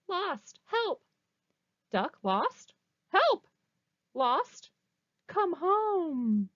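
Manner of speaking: high, loud cries of help; calling for help. Acted. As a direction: cry out the signs like a frantic search. Reading the signs as cries.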